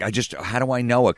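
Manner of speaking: high-pitched feigned bafflement; passive-aggressive puzzlement. Retold or imitated. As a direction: imitate someone pretending not to recognise you. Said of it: "It's like a passive-aggressive thing".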